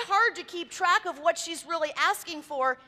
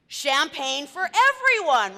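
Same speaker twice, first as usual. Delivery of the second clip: mock yell; 7 dB louder than usual. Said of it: "somebody screams".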